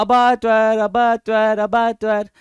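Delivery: piglet crying out अबाटॉयर for its papa. Retold or imitated. Teacher voicing the piglet crying for its papa, shouting अबाटॉयर. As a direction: call out अबाटॉयर like a panicked piglet. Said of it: "बच्चा चिल्ला रहा है".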